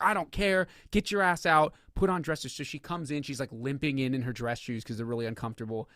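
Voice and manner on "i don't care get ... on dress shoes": higher, snapped mock order; a touch of an impatient judge; angry judge. Judge ordering mom out, mild mock anger. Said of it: "And he's like".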